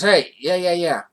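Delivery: eager mechanic. Retold or imitated. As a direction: sell it like a cheerful mechanic. Mechanic eagerly reassuring them.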